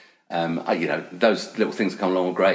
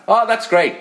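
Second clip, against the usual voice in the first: excited; 13 semitones higher, 7 dB louder, slower than usual. Retold or imitated. Producer praises the take.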